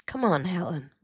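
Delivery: gently coaxing; sympathetic. A narrator's reading. Uncle urges niece to leave, sympathetically. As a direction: coax her along with sympathy. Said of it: "Uncle Gerald said sympathetically".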